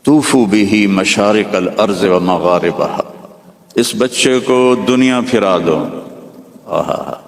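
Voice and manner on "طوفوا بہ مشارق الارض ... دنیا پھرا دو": slow, solemn Arabic recitation; measured Quranic-style chant; voice from the fog. Acted. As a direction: intone it like a heavenly decree. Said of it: "اس fog کے اندر سے آواز آئی".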